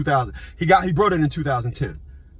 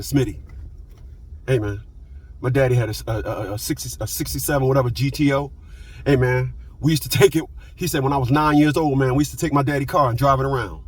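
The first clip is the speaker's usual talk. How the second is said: a lowered, lightly voiced old friend; imitating friend; 5 semitones lower than usual. Old friend telling Smitty about his daddy's car, lowered imitation. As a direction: drop the voice into a hint of his buddy.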